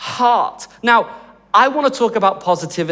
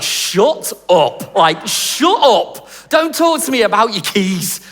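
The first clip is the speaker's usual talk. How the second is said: drawn-out, fed-up "shut up"; hammed-up impatient dismissal; mock exasperation; slower than usual. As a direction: cut off a gushing friend in disbelief. Exasperated reply to weeping friend.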